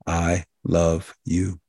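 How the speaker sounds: slow, heartfelt and sincere; mean every word, let it land slowly; tender, deliberate "I love you"; with feeling. Shown as a demonstration. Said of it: "you say that with feeling and with meaning".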